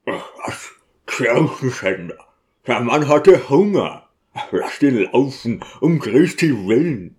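lightly voiced deacon, brushing off the accusation; a touch of gruff-hearted clerical protest; dismissive deacon. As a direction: plead the poor man's case, a little impatient.

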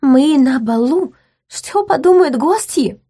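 high, slow alarmed plea; anxious duchess; alarmed lady. A narrator's reading. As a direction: plead urgently. Gloria pleads with men.

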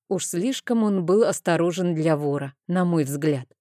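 usual speaking voice

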